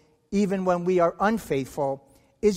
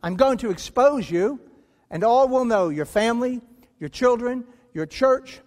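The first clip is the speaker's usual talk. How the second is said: raised, firm voice, higher and louder; indignant confrontation; 4 semitones higher, 4 dB louder than usual. Acted. Betrayed spouse confronting the cheating partner, raised and firm. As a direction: stand up to the cheater at last.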